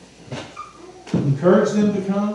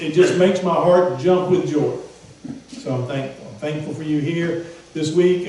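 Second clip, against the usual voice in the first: normal talking voice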